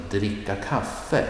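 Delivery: dricka quick, kaffe stressed; phrase stress. Shown as a demonstration. Teacher showing which word takes stress. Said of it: "Look at the example".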